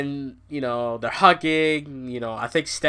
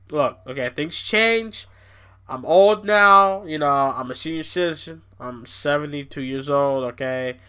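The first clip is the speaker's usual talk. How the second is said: humbled Vince; 2 semitones lower than usual. Retold or imitated. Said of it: "his tone changed".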